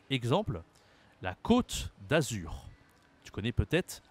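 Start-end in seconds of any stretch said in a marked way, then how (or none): 1.2-2.7 côte with a long closed O, slowly; circumflex ô. Shown as a demonstration. Teacher models the circumflex example, slow closed O in côte. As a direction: draw out côte with a rounded closed O. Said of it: "ça change la prononciation en français".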